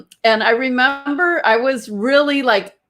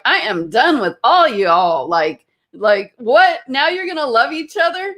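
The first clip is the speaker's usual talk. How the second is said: retold irritation; 3 semitones higher than usual. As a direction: act out exasperated disbelief. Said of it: "I was so irritated".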